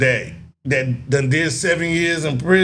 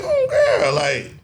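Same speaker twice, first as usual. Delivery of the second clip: mock diva. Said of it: "I was like".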